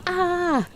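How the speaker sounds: a short high mock shriek of excitement; mock scream. Showing chat the screaming she won't do, high mock shriek. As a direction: squeal it, pretending to lose it. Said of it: "screaming down the microphone".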